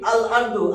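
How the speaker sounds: আল আরদু with the l clearly sounded; lam pronounced. Shown as a demonstration. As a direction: voice the l of আল before আরদু. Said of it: "লামের উচ্চারণটা হয়েছে".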